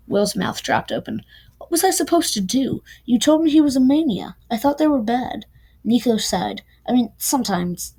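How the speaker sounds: reads the novel aloud, giving the lovers' fight some life; lightly acted audiobook read; story reading. A narrator's reading. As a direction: narrate it like a reader sharing a favourite chapter.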